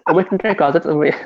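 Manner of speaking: put-on Portuguese with a thick American accent. Teasing a friend, Portuguese in a gringo American accent. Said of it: "He's doing an American speaking Portuguese accent".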